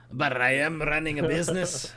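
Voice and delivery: lightly voiced Watto-style trader accent, amused; shopkeeper accent. Shopkeeper insisting on his price, a hint of a Watto-style accent. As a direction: repeat the line in the faint alien trader accent, half laughing. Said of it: "I really like that accent".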